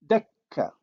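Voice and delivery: Dakka with a backed vowel after emphatic d; Arabic emphasis demo. Shown as a demonstration. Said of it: "look at the examples".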